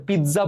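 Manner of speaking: পিৎজা with a voiced z, "pid-za"; common mispronunciation. Shown as a demonstration. Teacher showing what we call it, mispronounced. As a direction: say পিৎজা with a buzzing "dz". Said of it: "আমরা এটাকে পিৎজা বলি".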